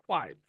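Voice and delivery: কোয়াইট stressed on the first syllable, falling away. Shown as a demonstration. Teacher repeating the example, কোয়াইট with stressed first syllable. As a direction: lean on the start of কোয়াইট, then drop. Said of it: "এই জায়গাটা হচ্ছে stress".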